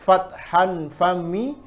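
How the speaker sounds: fathan fami said slowly with the mouth wide open; drawn-out open a in fathan fami; open mouth fathah. Shown as a demonstration. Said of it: "Ketika fathah, kaidahnya".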